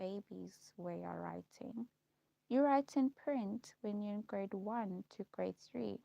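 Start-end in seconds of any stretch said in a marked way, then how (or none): 0.0-1.9 whispered aside. Real, not acted. Scornful aside on print writing.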